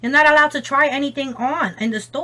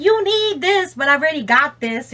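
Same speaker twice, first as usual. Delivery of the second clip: salesy product voice; 4 semitones higher than usual. Retold or imitated.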